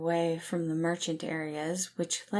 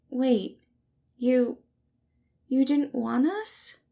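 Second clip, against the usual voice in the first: higher and louder, stunned and wounded; hurt surprise; 7 semitones higher, 7 dB louder, slower than usual. Acted. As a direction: stumble over it, caught off guard. Patton hurt by Virgil's reply.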